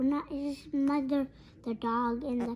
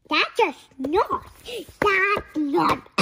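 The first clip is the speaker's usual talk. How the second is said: alarmed outburst; 5 semitones higher, 7 dB louder, slower than usual. Acted. Baby bird frightened by the snort.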